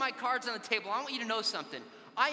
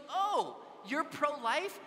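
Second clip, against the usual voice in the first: higher, lightly scoffing question; retold mocking; 4 semitones higher, much slower than usual. Girl's friend mocking a pro-life man, retold with light scorn. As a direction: imitate a scornful, drawn-in challenge. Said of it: "They start mocking me".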